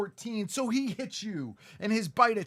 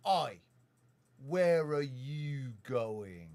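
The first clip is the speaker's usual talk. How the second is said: British bandit; 5 semitones lower, much slower than usual. Acted. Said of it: "and he says".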